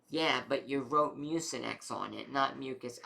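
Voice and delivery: imitating a dad's emphatic correction; mild retold retort. Dad correcting mom about the medicine, mock retort. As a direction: push back firmly, lightly acted.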